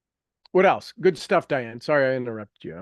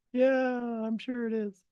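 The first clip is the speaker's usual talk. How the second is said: mock-bored sarcastic reply, higher; dry mock sarcasm; sarcastic yeah right; 7 semitones higher, 6 dB quieter, slower than usual. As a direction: roll the eyes through it. Mocking reply to students' enthusiasm.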